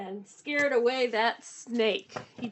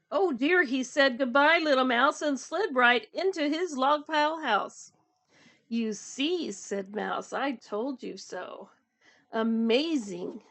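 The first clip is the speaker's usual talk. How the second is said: animated storytime reading, lightly acted dialogue; picture book read-aloud. A narrator's reading. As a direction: read the animals' lines playfully to children. Reads story with character voices.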